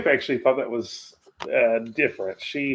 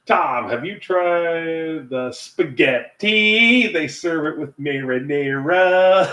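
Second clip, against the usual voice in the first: bumbling mayor; 3 semitones higher, 4 dB louder, slower than usual. Retold or imitated. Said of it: "mayor says to poor Tom".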